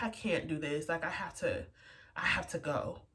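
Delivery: soft, hushed, half-tearful retelling; retold tearful plea. Telling her sister she must leave, a hint of tears. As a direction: quietly relive the moment of breaking down. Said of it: "I'm crying".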